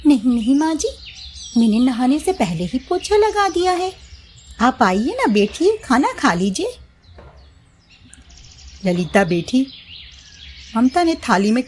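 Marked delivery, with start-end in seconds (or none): 0.1-6.8 higher, sweet obedient bahu; high young daughter-in-law promising obedience. Acted. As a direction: sound eager to please mother-in-law. Mamta lies sweetly.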